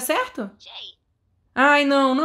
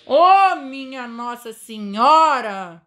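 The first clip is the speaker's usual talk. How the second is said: exasperated outburst; 4 dB louder, much slower than usual. Real, not acted.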